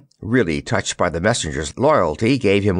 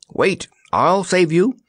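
puffed out, a bit higher; puffing; 9 semitones higher than usual. A narrator's reading. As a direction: gasp it out with effort. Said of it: "he puffed".

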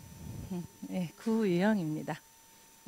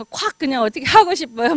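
louder, blunt hammed-up threat; mock-angry client blowing up, louder; mock fury; 4 semitones higher, 6 dB louder than usual. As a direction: play a hothead venting. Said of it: "막 이렇게".

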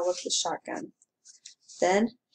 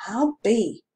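amazed; 3 semitones higher, 5 dB louder than usual. Acted. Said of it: "The constable's eyes went round".

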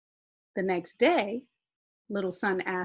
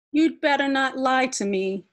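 warning; 6 semitones higher, 5 dB louder than usual. Acted. Sun warns Shade.

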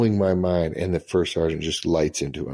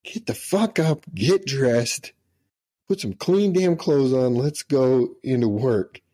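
mock barked orders; 6 semitones higher than usual. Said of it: "he's like".

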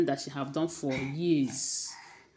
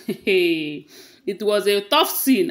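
laughing, louder and higher, drawn out; amused laugh; 4 semitones higher, 7 dB louder, much slower than usual. Real, not acted. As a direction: chuckle loudly into slow, amused words. Amused by the retold fight.

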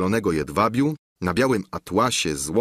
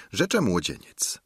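ordinary delivery, nothing marked

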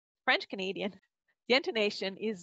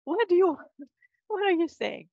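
confused; 10 semitones higher, 7 dB louder than usual. Retold or imitated. Retold confusion with repairman.

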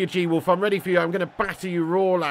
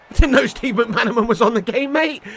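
laughing disbelief; 4 semitones higher, 4 dB louder than usual. Real, not acted.

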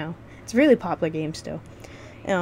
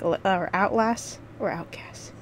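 whispered aside under breath; whispering; 2 semitones higher, slower than usual. Real, not acted. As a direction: drop to a whisper for the correction. Muttered correction to self.

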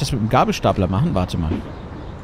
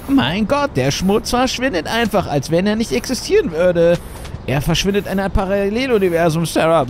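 chipper 1950s ad; 2 semitones higher than usual. Acted. Mock ad dialogue.

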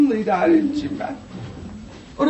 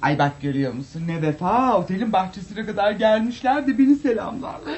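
low, quick, choked-up; moved to tears by loyalty; teary and touched; 5 semitones lower, 4 dB quieter than usual. Acted. Diva moved, tearful.

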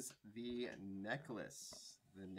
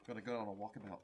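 bad Australian accent; 3 dB louder, faster than usual. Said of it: "That was the worst Australian accent ever".

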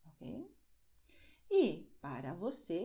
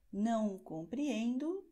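slow model phrase. Shown as a demonstration. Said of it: "A mesma coisa é".

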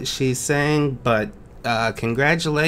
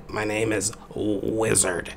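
confused wizard; 5 semitones lower, 6 dB quieter than usual. Acted. Plays a confused wizard contestant.

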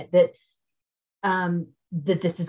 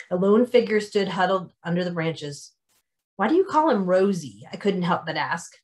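story narration. A narrator's reading. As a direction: narrate the scene like reading to listeners. Author reads book excerpt aloud.

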